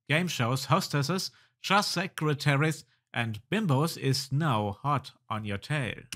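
animated storyteller reading; game story narration. Acted. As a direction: narrate the adventure game text with lively emphasis. Reads game dialogue and narration.

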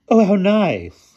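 high, slow, loud headmistress delight. A narrator's reading. Headmistress admires the souvenirs, delighted high voice. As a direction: coo it slowly, far up in falsetto. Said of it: "exclaimed the headmistress with delight".

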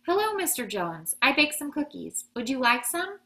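high, loud, over-cheery chatter; apologetic big smile. A narrator's reading. Mama offers the postman cookies, over-cheery and apologetic. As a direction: offer treats through a big sorry smile. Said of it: "with a big apologetic smile".

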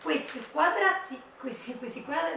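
stumbling over words from the cold; shivering and tripping on syllables; teeth chattering. Real, not acted. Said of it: "non riesco a parlare perché fa freddo".

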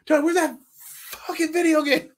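high-pitched pretend outburst breaking into laughter; heckle, half laughing; mock heckling yell. Host playing an irate reporter at the scrum, mock heckling.

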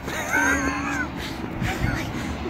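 high squealing laugh, then surprise; shrieking laugh. Real, not acted.

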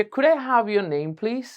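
slow, keen polite ask; with real interest. Shown as a demonstration. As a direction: ask as if you truly want to know. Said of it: "খুব একটা আগ্রহ নিয়ে।". (খুব আগ্রহ নিয়ে প্রশ্ন)

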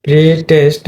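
প্রি test with a long "pree"; pree-test, long first vowel; long i sound. Shown as a demonstration. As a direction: hold the ee of প্রি before test. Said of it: "এটা কিন্তু long ই হবে".

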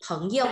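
"Phấn yêu" with "yêu" toneless; neutral final tone. Shown as a demonstration. Teacher repeats it for class, "yêu" light and toneless. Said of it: "Bỏ cái dấu đằng sau".

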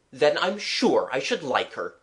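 a touch of heartiness; hearty. Acted. Artist agreeing with the child about Martha, mildly hearty. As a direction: agree with understated gusto. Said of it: "he replied heartily".

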